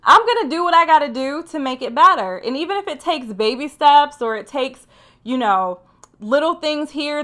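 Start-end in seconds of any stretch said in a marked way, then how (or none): 0.0-2.4 determined. Retold or imitated. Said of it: "you get up the next day and you say".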